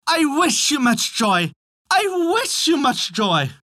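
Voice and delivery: very high drawn-out bawl; high, stretched storybook cry; singsong bawling. A narrator's reading. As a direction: bawl it out as a repeated chant. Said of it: "kept bawling out".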